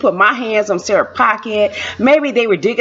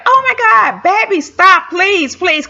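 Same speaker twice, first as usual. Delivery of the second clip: anxious pleading; 10 semitones higher, slower than usual. Retold or imitated. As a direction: plead with him to stop, alarmed. Begging husband to calm down.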